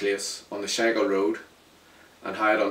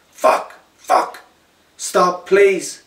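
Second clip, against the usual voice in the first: loud high agonised screams; screaming in pain; 9 semitones higher, 9 dB louder, much slower than usual. Acted. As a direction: beg them to stop through the pain. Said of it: "I screamed out".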